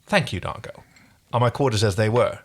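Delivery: muffled by a finger in the mouth. Acted. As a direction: read it with a finger in your mouth. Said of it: "Like that finger in your mouth".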